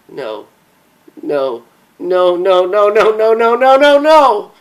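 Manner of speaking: disbelief swelling into a scream; grief-stricken denial climbing to a shriek; building to screams. Acted. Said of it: "began screaming at the top of her voice".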